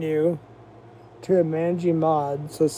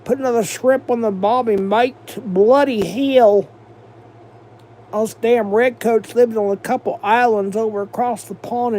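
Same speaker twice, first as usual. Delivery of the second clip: mocking British accent, pitched higher, cheeky "mate"; 5 semitones higher than usual. Streamer mocking British people to chat, in a higher mock British accent. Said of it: "They talk like this".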